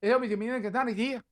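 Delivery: high broken mock Spanish; fake foreign language. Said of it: "I don't wanna go".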